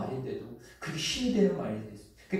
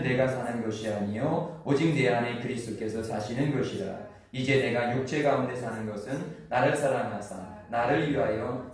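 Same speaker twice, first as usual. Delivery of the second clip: steady, measured reading tone; scripture reading. Acted. Pastor reading Galatians 2:20 aloud to the congregation, measured recitation. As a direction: recite the verse evenly.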